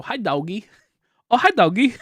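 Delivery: movie quote. Retold or imitated. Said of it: "like, the movie The Room?".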